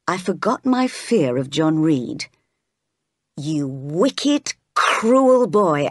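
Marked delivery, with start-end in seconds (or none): 3.3-5.9 lightly acted outrage, leaning on each insult; mildly angry cry. Jane turning on John, mildly outraged. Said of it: "I cried".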